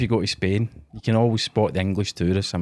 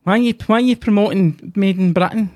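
mocking an outraged online commenter, much higher and louder; angry commenter; 9 semitones higher, 4 dB louder than usual. Mocking outraged Facebook comments about Made in Britain, higher and louder. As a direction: whine it like an offended troll in the comments. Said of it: "See the hate you would get in the comments".

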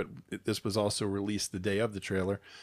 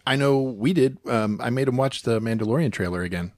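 loud upbeat welcome back; podcast host announcer; 3 semitones higher, 9 dB louder than usual. Acted. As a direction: greet listeners like a radio host. Host returns from break.

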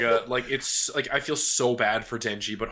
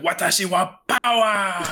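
higher, slow, mock-proud yell; mock scream; 8 semitones higher, 4 dB louder, slower than usual. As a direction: announce yourself like a proud brat. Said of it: "she literally comes through the door screaming".

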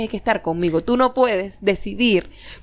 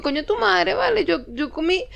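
indignant outburst; 7 semitones higher than usual. Retold or imitated. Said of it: "yo digo".

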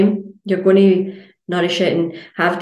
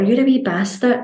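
mock insult; 6 semitones higher than usual. Insulting a glass of water.

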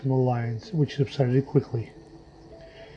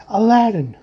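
high, raised-voice command; commanding call; 7 semitones higher, 4 dB louder than usual. A narrator's reading. Father commanding an unresponsive room to change, insistent call. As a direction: call the name out sharply, pitch leaping up.

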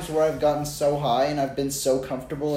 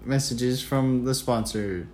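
announcer voice; 2 semitones lower, slower than usual. Pretend. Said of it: "mock broadcast break".

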